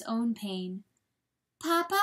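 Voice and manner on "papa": high, rising little call; questioning fawn. A narrator's reading. Fawn hit by ice chips, high questioning call. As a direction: ask it high and uncertain. Hurt fawn calls to father.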